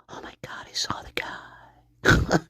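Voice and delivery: slow, soft whisper with a fake sob; mock whisper. Shown as a demonstration. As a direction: whisper it as if almost crying. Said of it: "I might as well be whispering then".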